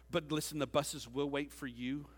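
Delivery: lightly imitated evangelist, slowing at the end; hint of a crusade preacher's measured appeal; Billy Graham. Preacher to a stadium crowd at the altar call, lightly imitated evangelist. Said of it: "that's my best Billy Graham impersonation".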